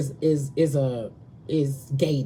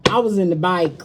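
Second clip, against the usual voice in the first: put-on southern accent. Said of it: "that's how they say back in the South".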